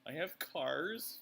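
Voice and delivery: very high, loud comic protest; mock-defensive, pitch shooting up; playful indignation. Real, not acted. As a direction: rattle off proof in a high, offended lilt. Comic list proving they are adult.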